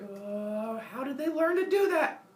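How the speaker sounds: high, loud outraged wail; cartoon tantrum, rising to a yell; angry Zeus. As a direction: erupt in hammed-up indignation. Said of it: "Zeus gets angry".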